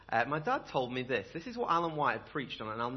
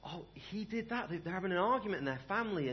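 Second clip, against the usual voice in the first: gossip voice; 3 semitones higher, 3 dB quieter than usual. Retold or imitated.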